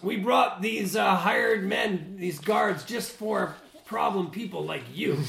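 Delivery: lightly voiced merchant. Merchant showing off his hired guards, mildly threatening. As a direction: warn them off with a touch of scorn. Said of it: "Well, he goes".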